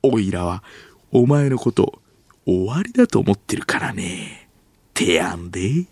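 hammed-up old Edo accent; botched standard Japanese. Actor on a failed retake, clumsy exaggerated Tokyo accent. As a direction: overdo the Tokyo dialect badly. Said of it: "関西弁で喋らないようブツブツとセリフを復習する".

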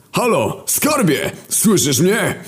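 high calling into a phone. Acted. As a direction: call to your sweetheart down a bad line. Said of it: "Wydarł się do słuchawki". (wysokie wołanie do słuchawki)

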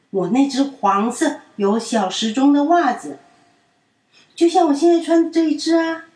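put-on loud, high, fast sulky child; angry child. A narrator's reading. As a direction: insist on the yellow sock. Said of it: "品品真的超生气的". (生气地坚持)

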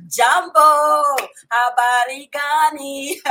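high, loud, drawn-out hail; calling out a greeting. Real, not acted. Host greeting Swahili-speaking viewers, calling out. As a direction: sing out the greeting loud and long.

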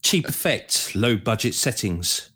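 dramatic beat poetry recital; beat poet reading. Pretend. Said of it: "you're a beat poet".

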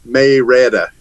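Marietta said as MAY-retta, the middle vowel dropped; local Marietta. Shown as a demonstration. A Smyrna man shows how locals say Marietta, as MAY-retta. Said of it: "that's how we say Mar".

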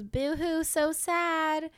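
a hint of taunting mockery; sarcastic pity, lightly voiced; mocking boo-hoo. Boyfriend taunting his crying girlfriend in the dream, mock pity. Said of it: "And he goes".

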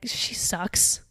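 hushed, breathy put-down; whispered jab. Acted. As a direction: whisper it like a secret insult. Blunt aside about annoying sister.

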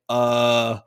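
drawn-out, stunned acknowledgement; stunned mom. Retold or imitated. Mom answers the hungover trainer, stunned. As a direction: imitate someone lost for words. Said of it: "my mom was just in so much of shock".

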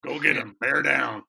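loud, deep gravelly coach bark; gruff pitching coach. Retold or imitated. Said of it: "it usually came in a deep, gravelly voice".

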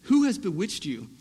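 slow, pointed rebuke read aloud; mildly sarcastic questioning, stretched for emphasis; a little sarcastic. Retold or imitated. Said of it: "he almost gets a little sarcastic".

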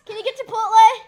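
strained shout, neck tight; mock strained yell into a Bluetooth; straining yell. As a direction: yell it like your throat is squeezed. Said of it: "he actually strains his neck".

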